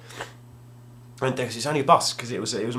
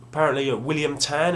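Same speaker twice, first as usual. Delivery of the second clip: timid asking; 6 semitones higher than usual. Retold or imitated. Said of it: "And I went".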